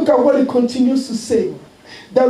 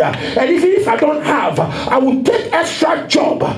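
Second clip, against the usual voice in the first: fervent preaching; 3 semitones higher than usual. Acted. Pastor to congregation, voicing a devoted follower in full preaching cry. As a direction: pour it out to the congregation.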